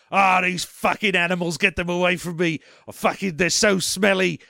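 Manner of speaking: lightly hammed-up disgusted star; a touch of peevish villain complaint; Michael Caine. Villain after the camera cuts, mock disgust at the animals. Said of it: "I'm Michael Caine".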